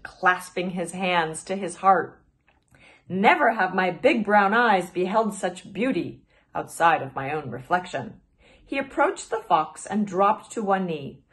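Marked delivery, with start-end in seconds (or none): 3.1-8.2 vain flirting. Acted. Glider flirts with the fox.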